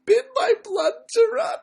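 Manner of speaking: high squeaky line breaking into giggles; voice cracking with laughter. Real, not acted. Singer losing it mid-song, laughing through the line. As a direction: try to sing but crack up.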